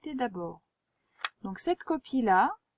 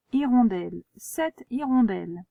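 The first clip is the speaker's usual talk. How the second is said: dictation voice; 3 dB louder than usual. Shown as a demonstration. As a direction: read it out for the pupil to write. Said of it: "Alors, hirondelle".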